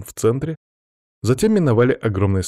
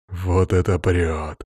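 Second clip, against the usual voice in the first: quiet chuckle; 3 semitones lower, much slower than usual. Acted. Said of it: "тихо хохотнул Макс".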